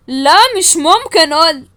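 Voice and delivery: loud, hammed-up tough kidnapper; changed kidnapper voice. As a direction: bark it like a mock gangster. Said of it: "أنا بعرف أغير صوتي قوي". (صوت خاطف متغير، عالي ومصطنع)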